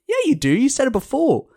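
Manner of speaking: very high-pitched indignant retort; mock whiny insistence; insistent protest. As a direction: argue back like an affronted drunk. Retold drunken dispute over drink.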